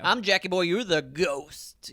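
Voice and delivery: slow, drawn-out DJ sign-on; radio host voice. Shown as a demonstration. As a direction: stretch the last words like a radio host. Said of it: "that's how you gotta say it".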